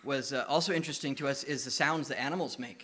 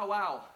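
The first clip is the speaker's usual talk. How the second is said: higher bow wow dog sound; a brighter doggy bow wow; 5 semitones higher than usual. Shown as a demonstration. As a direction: bark bow wow with a lift. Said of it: "that's why our dogs talk".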